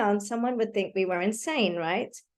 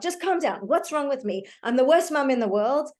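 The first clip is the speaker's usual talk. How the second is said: mock self-scolding; 4 semitones higher than usual. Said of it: "if you start yelling at yourself".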